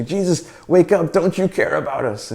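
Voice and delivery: a touch of alarm, pleading for help; mild panic. Acted. Disciples waking Jesus in the storm, mildly panicked. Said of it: "they're all in a panic".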